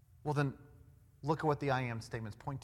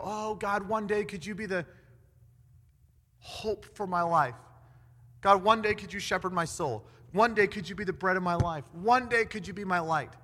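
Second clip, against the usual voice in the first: raised, yearning chant-like plea; mock pleading prayer; 3 semitones higher, 3 dB louder than usual. Preacher mimics someone praying to God for someday, mock pleading. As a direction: beg in a hammed-up wishful prayer.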